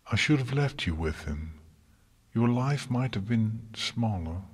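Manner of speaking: ordinary delivery, nothing marked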